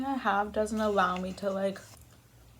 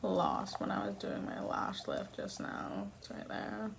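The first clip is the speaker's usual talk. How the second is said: muttering quietly; 7 dB quieter than usual. Real, not acted. Quiet aside mid-eating.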